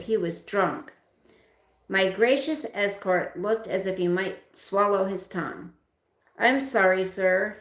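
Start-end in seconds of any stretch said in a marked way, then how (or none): 6.4-7.6 stammered. Acted. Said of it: "he stammered".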